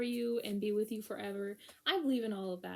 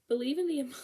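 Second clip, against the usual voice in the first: laughing; 8 semitones higher, faster than usual. Real, not acted. Laughing mid phrase.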